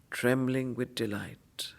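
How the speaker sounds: breathy whispered verse line. Acted. Teacher whispering a line of the poem to students. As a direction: breathe it, barely voiced. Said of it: "whispered line in recitation".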